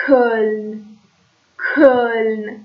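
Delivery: «کلن» with a German ö from the back of the throat; throaty ö. Shown as a demonstration. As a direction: model «کلن» slowly with a rounded ö. («کلن» با او اوملوت از ته حلق)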